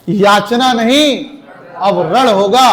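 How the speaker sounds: "याचना नहीं" slow and firm, "अब रण होगा" rising as a challenge; defiant declaiming. Shown as a demonstration. Teacher showing the right heroic reading to the class, defiant. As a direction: proclaim war with no smile. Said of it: "क्रोधित होकर बोलो भी उसे".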